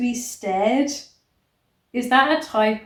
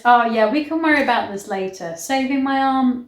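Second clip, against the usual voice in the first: fast, louder sarcastic character voice; mock heroine voice; 4 dB louder, faster than usual. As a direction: ham up her careless reply. Mocks heroine's inner voice.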